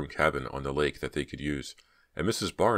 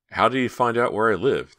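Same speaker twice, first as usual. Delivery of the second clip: worried, higher and louder; alarmed; 7 semitones higher, 6 dB louder than usual. A narrator's reading. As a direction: ask it with rising alarm. Myra alarmed.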